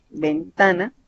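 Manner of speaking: ventana with the weight on -ta-; stress on middle syllable. Shown as a demonstration. Teacher shows a grave word, middle-syllable stress on "ventana". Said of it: "tiene la sílaba tónica a mitad".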